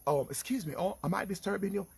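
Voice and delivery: lightly put-on New Jersey accent; American accent. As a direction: imitate a polite young man from New Jersey. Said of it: "The boy accent up".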